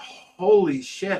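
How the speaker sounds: play-acted awestruck, stunned, amazed outburst. Retelling being shown rare fish: retelling own past amazement. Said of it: "I was never that amazed in my life".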